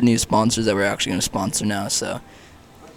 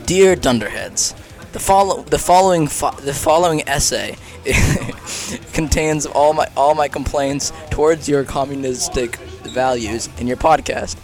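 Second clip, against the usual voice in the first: mock complaint letter; 3 semitones higher, 4 dB louder than usual. Imagined complainer writing to the podcast, mock formal. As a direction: play a pompous complainer, spelling out each point. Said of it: "imagine, like, it'd be like".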